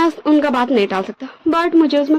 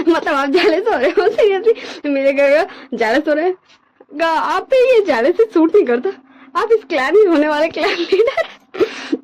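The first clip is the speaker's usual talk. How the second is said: higher, talking through laughter; laughing while teasing; 5 semitones higher than usual. Acted. Younger brother laughing, teasing his elder brother about jealousy. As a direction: tease him between giggles. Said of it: "काफी ज्यादा loudly हंसने लगता है".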